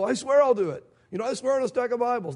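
mock earnest vow, pushed up in pitch; insistent swearing. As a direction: play someone insisting on their word. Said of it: "somebody who says".

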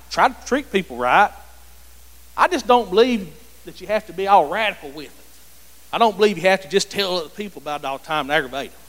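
mock-sincere churchgoer, lightly put on; mildly sarcastic recital; a little sarcastic. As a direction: voice a casual believer's excuses with a touch of sarcasm. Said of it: "sound a little sarcastic when I say this".

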